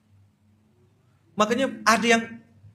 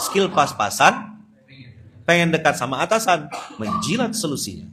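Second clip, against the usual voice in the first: louder mocking retake; 6 dB louder than usual. Shown as a demonstration.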